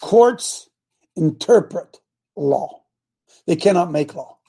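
slow and deliberate, every word separate; slow, heavy emphasis on each word; real slow. Shown as a demonstration. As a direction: spell it out slowly for the congregation. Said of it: "We'll say it again real slow".

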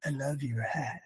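imitated timid whisper, low and very soft. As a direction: barely let it out, as if testifying in secret. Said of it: "Whispering it".

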